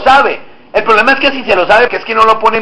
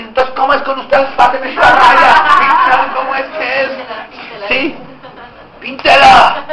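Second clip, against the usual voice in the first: mock aggressive; slower than usual. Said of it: "con un tono agresivo".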